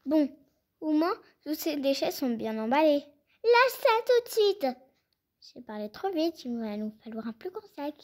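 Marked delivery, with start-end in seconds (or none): 3.4-4.7 sharp order. Acted. Grabbing the bags, ordering.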